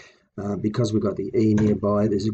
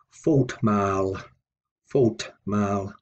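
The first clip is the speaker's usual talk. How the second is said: FAULT mal, weight on fault; stress on first word; much slower than usual. Shown as a demonstration. Teacher demonstrating compound word stress, stress on fault. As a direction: lean on fault, let mal follow lighter. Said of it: "the stress here is on the first word".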